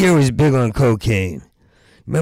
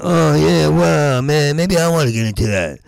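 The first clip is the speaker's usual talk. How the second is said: mock enthusiastic; 3 semitones higher than usual. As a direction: act keen on volleyball, overdoing it. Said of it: "And I went".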